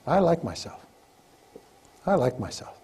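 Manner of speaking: calm and sincere, with pauses; slow, sincere affirmation. Shown as a demonstration. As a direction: let each one land, slowly. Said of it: "the most powerful words you'll ever learn".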